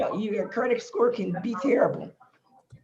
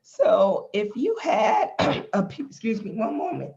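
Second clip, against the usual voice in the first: hoarse, croaky throat; talking through a frog in the throat; 2 semitones higher than usual. Real, not acted. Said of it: "My, my frog voice".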